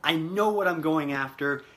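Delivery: slow, deliberate vow to yourself; firm affirmation. Shown as a demonstration. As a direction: say it like you mean every word, slowly. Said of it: "you need to say".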